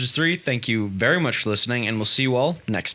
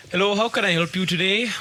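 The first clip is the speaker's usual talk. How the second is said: put-on helper voice; 5 semitones higher than usual. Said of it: "it's our vaguely racist guy".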